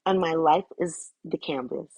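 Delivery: slow, deliberate affirmation reading; measured recital. Real, not acted. Reader sharing a channeled message about words and life, measured recital. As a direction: recite it in spaced-out phrases.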